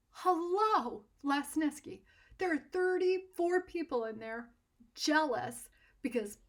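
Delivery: exasperated scolding. Retold or imitated. Artist scolds him for leaving.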